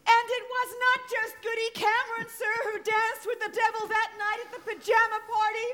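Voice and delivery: breathless, high, frantic accusing; possessed accusing girl. Acted. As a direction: denounce them like a possessed girl. Girl denouncing townsfolk in court.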